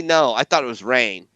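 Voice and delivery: snide mock retort; imitating a snide reply; passive-aggressive. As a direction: jab at him with sarcasm. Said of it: "passive-aggressive way".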